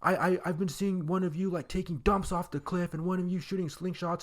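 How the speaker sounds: high-pitched mock scolding; imitating the angry old guy. Angry homeowner scolding kids who trespassed, high mock scold. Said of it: "he gets out super angry".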